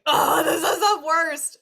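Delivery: hammed-up crying complaint; mock whiny wail. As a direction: wail it like a dramatic meltdown. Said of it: "the version we don't want".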